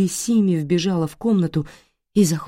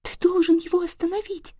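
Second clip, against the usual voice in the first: put-on child's plea. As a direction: beg him in fear. Little girl begging brother.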